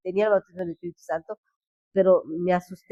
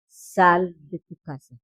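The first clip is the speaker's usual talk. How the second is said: slow, louder, commanding divine call; voice of God; 6 dB louder, slower than usual. Retold or imitated. God audibly commands her to leave, slow and solemn. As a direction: deliver it like God calling out, slow and weighty. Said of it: "Así, audiblemente".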